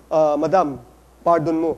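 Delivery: low, understated mock plea; lightly voiced President Erap. Host retelling Erap's request to GMA, lightly acted low voice. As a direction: lightly imitate a president addressing Madam, pitched low. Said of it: "Sabi niya raw kay G M A".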